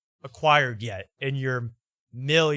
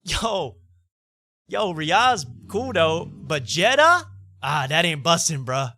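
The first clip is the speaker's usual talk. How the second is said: higher, louder, slow hyped bro call-out; bro slang voice; 4 semitones higher, 5 dB louder, slower than usual. Retold or imitated. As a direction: drag it out like a bro hyping the crowd. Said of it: "he calls out, he's like".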